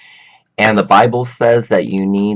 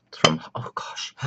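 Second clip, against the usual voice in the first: whispered aside; 3 semitones lower, 8 dB quieter than usual. Real, not acted. Forgets where china is from.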